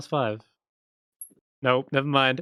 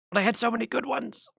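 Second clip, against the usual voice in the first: high, softer sulking heckler voice; heckler woman; 10 semitones higher, 4 dB quieter, faster than usual. Acted. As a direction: complain lightly about your lost jokes. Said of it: "she says".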